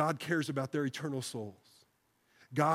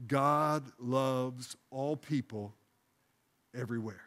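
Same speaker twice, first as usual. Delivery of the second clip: slow, deliberate, softening at the end; calm prayerful recitation; slow prayerful phrase; slower than usual. Shown as a demonstration. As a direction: lead the church phrase by phrase. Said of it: "second phrase".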